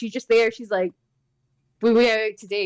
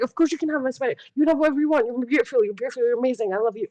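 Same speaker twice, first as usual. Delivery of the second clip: high, gushing adoration; doting gush; 6 semitones higher, faster than usual. Retold or imitated. Aunt promising niece anything in the toy shop, gushing high. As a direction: melt and spoil the child.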